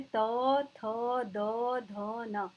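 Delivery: त, थ, द, ध, न each set apart, tongue on the teeth; teacher sounding out dental त, थ, द, ध, न; dental consonants demo. Shown as a demonstration. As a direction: recite त, थ, द, ध, न as separate dental syllables. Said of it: "दंत में दांतों से".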